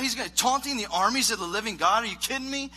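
high-pitched mock outrage; hammed-up incredulous anger, pitch leaping up; getting mad. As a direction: imitate an indignant young challenger. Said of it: "he starts getting mad".

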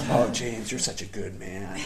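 soft, falling, coddling tone; imagined soothing sympathy. Pretend. Mentor imagined comforting the aggrieved husband, mock soothing. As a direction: soothe him like a doting friend. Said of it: "waiting for him to just, like, massage my shoulders".

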